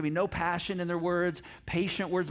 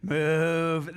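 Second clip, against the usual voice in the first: curt command; 2 semitones lower, 4 dB louder than usual. Acted. Clip of the sketch.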